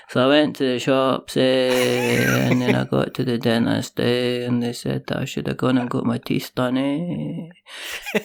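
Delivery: lightly voiced Scottish accent, one breath. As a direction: run on without breathing, Scottish. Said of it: "Scottish people ... can just go".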